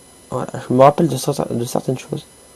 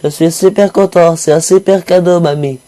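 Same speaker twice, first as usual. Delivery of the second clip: sarcastic; 4 semitones higher than usual. Pretend. Sarcastic reply to grandma.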